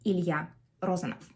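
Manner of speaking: Ilya Rozanov, Russian stress and final f; full name said the Russian way; Russian pronunciation. Shown as a demonstration. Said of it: "So the full name we're getting is".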